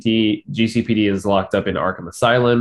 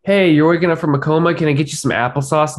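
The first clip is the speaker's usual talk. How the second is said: high, quick, sugary buddy voice, hammed up; mock cheery friend; 7 semitones higher, 3 dB louder than usual. Parodying Bruce greeting Alfred waking from coma, mock cheery. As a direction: chirp it like an overeager pal.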